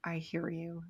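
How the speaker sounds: soft, calm self-talk; gentle acceptance. Acted. Talking to the inner critic instead of getting mad, gently accepting. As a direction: acknowledge it quietly, without any anger. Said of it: "instead of getting mad at it".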